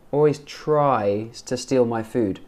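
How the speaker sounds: slow model line, "tries" with an open AI; clear AI in tries. Shown as a demonstration. Teacher modelling for a learner, "tries" slow with a clear AI vowel. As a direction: draw out "tries", rhyming with "eyes". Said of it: "But try".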